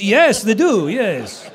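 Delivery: exaggerated French accent, rising high and loud; Mister Potato. Shown as a demonstration. Actor recognised in the supermarket, hammed-up French accent. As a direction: lapse into the cartoon French accent. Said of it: "if I'm talking like this".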